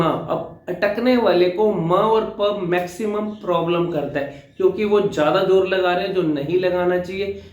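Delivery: ordinary talk, nothing marked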